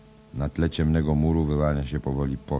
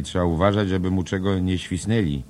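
louder, higher jovial Irish jarvey; Kelleher voice; 6 semitones higher, 6 dB louder than usual. Acted. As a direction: boom it out like a hearty cabman. Kelleher voiced in read drama. (głośny, wyższy głos dorożkarza)

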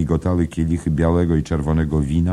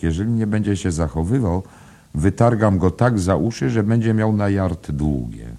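higher, heated scolding; indignant threat; 6 semitones higher, 4 dB louder than usual. A narrator's reading. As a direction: threaten a cheeky youngster, voice raised. Waitress threatens to punish the boy.

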